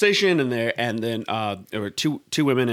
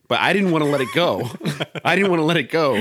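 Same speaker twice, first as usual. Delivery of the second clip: laughing; 5 semitones higher, 4 dB louder than usual. Real, not acted. Laughing retelling the overheard line.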